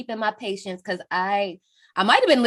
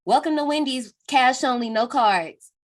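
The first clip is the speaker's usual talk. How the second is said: drive thru speaker; 3 semitones higher than usual. Retold or imitated. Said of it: "drive-through speaker or whatever".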